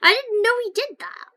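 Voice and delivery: surprised. Real, not acted. Surprised by teammate's move.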